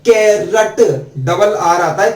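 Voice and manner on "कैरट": कैरट with a short "rat" ending; कैरट set out clearly for learners; carrot pronunciation. Shown as a demonstration. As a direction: say कैरट firmly, as "kai-rat". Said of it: "कैसे बोला जाता है".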